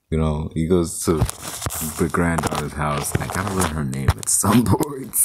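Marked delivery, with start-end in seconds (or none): 3.2-5.1 breaking into a laugh near the end; laughing through it. Real, not acted. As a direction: say it while starting to laugh. Laughs at forgetting the name.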